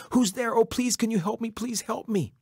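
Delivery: high-pitched, urgent begging; frantic high cry to a stranger; desperate pleading. Acted. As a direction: plead helplessly for help. Blind Coyote begs for help.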